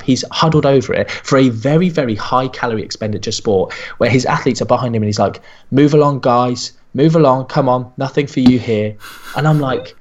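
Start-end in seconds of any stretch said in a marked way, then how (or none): 5.7-9.0 raised voice moving people along; officious shooing. Retold or imitated. Nutritionist herding athletes away from butter, bossy.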